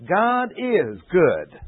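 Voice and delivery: God is good drawn out and ringing; emphatic, slow. Acted. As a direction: proclaim it, stretching every word. Emphatic statement of the psalm.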